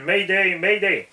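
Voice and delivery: high loud mayday call; pilot cockpit headset. Pretend. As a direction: shout the distress call. Mock pilot distress call.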